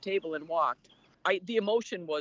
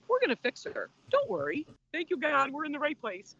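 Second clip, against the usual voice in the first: higher, mildly imitated confident doctor; a light take on the doctor's reassurance; doctor comforting the tearful husband; reassuring doctor; 6 semitones higher than usual.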